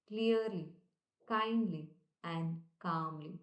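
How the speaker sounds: slow, deliberate, calm affirmation voice; gentle guided repetition at slow pace; slow affirmation recital. Shown as a demonstration. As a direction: recite each word slowly as a self-affirmation. Recites affirmations, repeating each.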